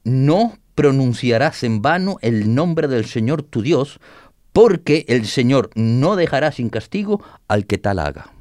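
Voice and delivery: slow, measured reading of the commandment; solemn scripture reading. Shown as a demonstration. Reading the commandment aloud to listeners, slow and solemn. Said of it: "Leo para ustedes".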